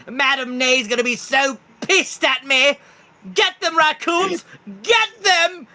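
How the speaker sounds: high, loud squealing commands; rally the raccoons in a shrieking panic; Lord Jimothy ordering. Acted. Raccoon king ordering his minions to attack, high shrieks. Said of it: "He goes".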